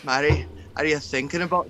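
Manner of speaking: lightly voiced Scottish accent. Playing a Scot addressing Mary, Scottish accent. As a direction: put on a light Scottish burr. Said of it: "he does the Scottish".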